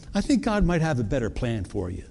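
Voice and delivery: low, slightly softened imitation of a friend; gentle advice, retold. Wise friends advising the new believer, gently retold. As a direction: drop the pitch to counsel kindly.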